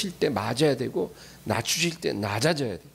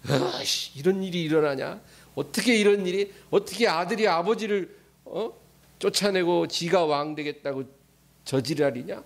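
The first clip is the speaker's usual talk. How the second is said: angry grumbling crowd; 5 semitones higher than usual. Retold or imitated. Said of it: "다 막 화가 났어".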